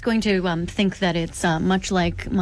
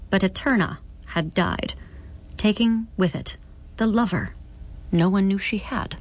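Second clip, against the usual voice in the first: measured, solemn literary reading; narrator's deliberate storytelling; story narration. A narrator's reading. Reads novel aloud.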